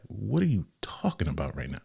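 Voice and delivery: mock-baffled whispered question; incredulous half-whisper. Host voicing reaction to a student's nonsense question, incredulous whisper. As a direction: whisper it like you can't believe the question.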